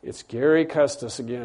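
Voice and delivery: low-key mock tiredness; weary imitation. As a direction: sigh it out as if fed up. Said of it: "God never gets tired and he goes".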